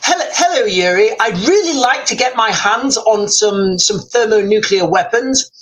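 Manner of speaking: lightly put-on Oxbridge English accent. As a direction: Iranian officer with a Sandhurst-English accent. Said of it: "my Iranian will have a very English accent".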